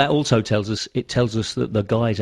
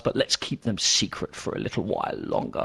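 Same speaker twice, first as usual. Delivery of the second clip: secretive hush; 4 semitones lower, 7 dB quieter than usual. Pretend. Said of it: "That was my evil scientist laugh".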